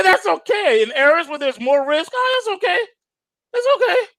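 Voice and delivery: laughing mock official; mock reassuring official. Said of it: "He said".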